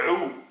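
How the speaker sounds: ou begun in the throat as Arabic aïn; aïn with damma. Shown as a demonstration. Teacher demonstrating aïn with damma, throaty ou. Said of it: "avec la damma".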